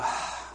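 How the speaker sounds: a quiet, satisfied sigh out; soft contented sigh. Shown as a demonstration. Sighing along with the church over good teaching, soft contented sigh. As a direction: sigh like a deep breath after good teaching. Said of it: "we all kinda go".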